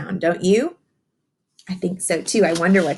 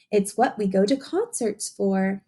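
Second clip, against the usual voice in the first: picture book reading. Acted. Teacher reading a rhyming book to young children, sing-song storytelling. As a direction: read the rhyme to the children, savouring each line.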